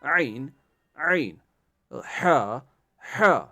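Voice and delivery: عین and ہا each said loud and separate from mid throat; practice drill. Shown as a demonstration. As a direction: drill عین عین ہا ہا one by one, loudly. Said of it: "practice کریے بار بار". (عین اور ہا کو بار بار زور سے پریکٹس کریں)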